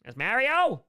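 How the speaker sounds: Mario stressed high and loud, meh-rio; emphatic Mario. Shown as a demonstration. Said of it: "It's pronounced Mario".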